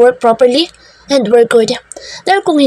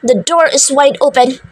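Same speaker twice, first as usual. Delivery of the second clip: higher, cold command to the room; commanding order; 3 semitones higher than usual. Acted. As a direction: dismiss them like a tyrant. Boss orders staff back to work.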